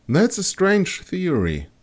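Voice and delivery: high, slow skeptical remark; skeptical woman. Acted. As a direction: drawl it out high and doubtful. Astrologer doubtful.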